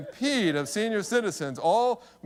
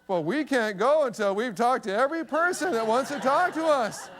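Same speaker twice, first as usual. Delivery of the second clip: higher-pitched voicing of a wife's retort; 6 semitones higher than usual. Wife to husband who wants to go, higher-pitched retort. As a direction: put the waiting husband in his place, pitched up.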